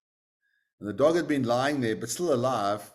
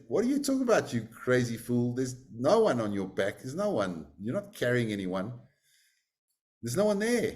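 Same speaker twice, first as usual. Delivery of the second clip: mocking crowd. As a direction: scoff at the crazy fool. Townspeople mock Atisha.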